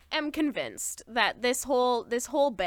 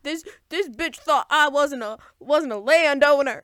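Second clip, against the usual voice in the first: louder offended comic boast; mock indignation; 3 semitones higher, 5 dB louder than usual. Lord affronted by the human girl, mock indignant. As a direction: play the affronted landowner. Continues the mocked lord's tantrum.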